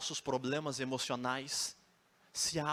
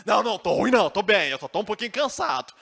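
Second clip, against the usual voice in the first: mock denial; 8 semitones higher, 11 dB louder, faster than usual. Paulo denies being weak.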